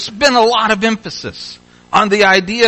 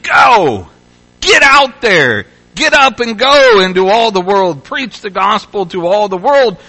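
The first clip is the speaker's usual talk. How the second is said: emphatic command; 3 semitones higher, 4 dB louder than usual. Acted. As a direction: thunder the command at the congregation. Preacher voicing Jesus' command emphatically.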